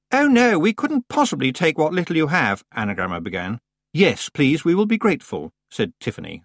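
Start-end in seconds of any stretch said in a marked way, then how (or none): 0.1-2.6 prim polite refusal. A narrator's reading. 3.9-5.5 louder and quicker. A narrator's reading. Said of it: "louder and quicker".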